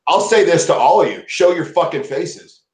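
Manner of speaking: defiant, slowed-down call to show faces; angry challenge. Real, not acted. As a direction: spell out each word like a threat. Angry challenge to all listeners.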